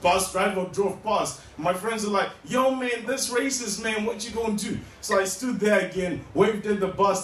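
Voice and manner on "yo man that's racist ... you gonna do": goading friend. Acted. Friends egging him on, repeated.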